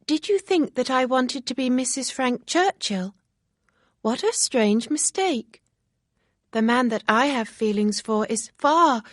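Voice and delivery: excited chatter; Harriet, eager and girlish. Acted. Harriet explains her feelings.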